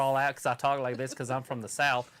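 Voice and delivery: put-on Southern accent, vowels drawn out; mock Southern drawl. Shown as a demonstration. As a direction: playfully fake a Southern drawl. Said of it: "I'm gonna draw it all out".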